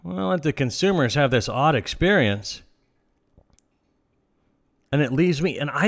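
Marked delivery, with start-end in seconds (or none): 0.0-2.6 high, careless dismissive shrug; mock-indifferent business owner; dismissive meh. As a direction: brush it off like nobody cares. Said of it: "It's like".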